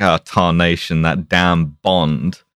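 lightly voiced low, slow Southern sheriff; a hint of a grumbling hick lawman; dumb sheriff. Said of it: "dumb sheriff ... being like".

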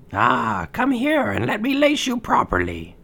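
put-on wheedling old hag; old crone murmur. Disguised queen tricks Snow White.

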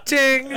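high, loud "ting"; toaster ding imitation. Podcaster finishing the robot-toaster joke, imitated ding. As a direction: ring out like a toaster popping. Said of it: "the toaster pops toast up".

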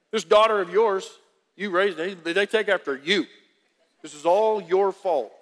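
playful spouse blaming, laughing; mock spouse blame. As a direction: tease your spouse with blame. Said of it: "said that to your spouse".

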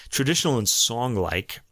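New York vowel slipping into song-like; slight New York accent on song-like. Real, not acted. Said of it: "my New York accent came out there".

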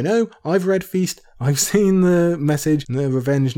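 high excited laugh through the words. Real, not acted. Laughing at grim book spoiler.

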